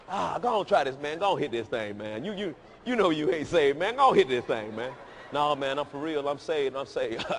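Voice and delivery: lightly voiced tempter Bucky, coaxing; mock tempting friend. Bucky coaxing the saved friend, lightly voiced tempter. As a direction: coax him like a smooth-talking buddy. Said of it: "He said".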